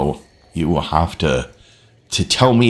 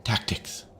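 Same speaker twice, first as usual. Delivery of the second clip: put-on whispered little-girl Tactics; imitating granddaughter; 3 semitones higher, 14 dB quieter than usual. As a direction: softly echo a toddler saying Tactics. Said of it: "granddaughter walking around saying".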